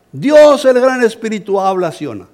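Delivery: high, loud, slow proclamation; proclaiming loudly. Retold or imitated. Preacher proclaiming to the villagers in their tongue, loud and slow. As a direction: call it out slowly to the whole crowd.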